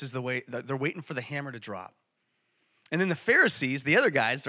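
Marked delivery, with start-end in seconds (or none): none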